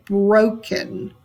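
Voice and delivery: "broken" with weight on "bro", falling away; stress on first syllable. Shown as a demonstration. Teacher repeats the trochee example, "broken" stressed on "bro". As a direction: stress the first half of "broken", drop the second. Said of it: "stress on the first syllable".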